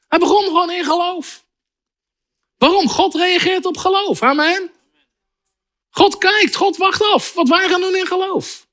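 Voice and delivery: high-pitched, insistent preacher; fervent preaching. Real, not acted. Preacher urging congregation that God responds to faith, fervent.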